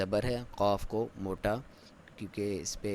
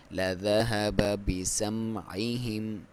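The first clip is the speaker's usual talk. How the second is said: recitation; slower than usual. Shown as a demonstration. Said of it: "میم پہ آپ نے حرکت نہیں کرنی".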